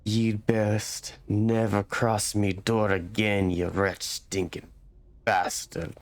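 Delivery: slow, menacing growled threat; mild threatening rough villager; parting shot. Acted. Villager threatens stranger leaving his door, slow menacing voice. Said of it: "throws a parting shot".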